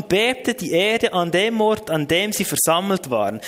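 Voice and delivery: emphatic read-aloud Bible verse in standard German; scripture reading. Real, not acted. Preacher reading the congregation a verse from Acts, scripture reading.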